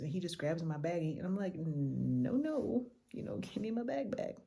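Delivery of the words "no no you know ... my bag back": breathy whisper pleading for the bag; half-whisper, trying to get it back; whispered protest. Retold or imitated. Tourist whispers to pushy driver for her bag back.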